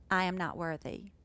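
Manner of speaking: quiet, humble "I am not worthy"; softly. Shown as a demonstration. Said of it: "He said it softly".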